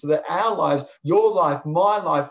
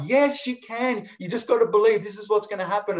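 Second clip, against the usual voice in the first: butterfly voice; 6 semitones higher than usual. Acted. Butterfly answering the mocking caterpillar, high and eager.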